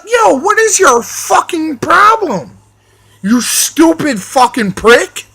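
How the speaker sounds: high-pitched retold outburst at the men; mock angry yell. Retold yelling at racist guys.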